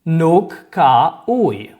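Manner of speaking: "Nuk ka uj" spaced out very slowly; slow negative model. Shown as a demonstration. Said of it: "add nuk in front of ka".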